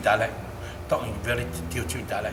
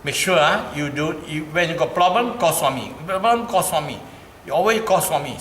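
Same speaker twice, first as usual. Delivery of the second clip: high, loud insistent reminding; urgent reminder; 6 semitones higher, 7 dB louder than usual. Retold or imitated. Son urging his mother to call Swami, loud and insistent. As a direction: drill it into her, loud and high. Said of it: "I always remind my mother".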